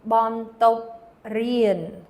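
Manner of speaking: Bon top rien, stretched out slowly; slow model word. Shown as a demonstration. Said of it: "How would you say schoolroom".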